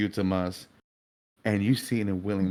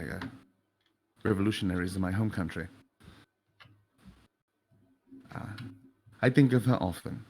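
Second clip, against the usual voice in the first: put-on softer, calm, sincere young man; gentle William, softly apologetic; 2 semitones lower, 4 dB quieter than usual. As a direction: speak quietly and kindly to him. William answers the grieving father.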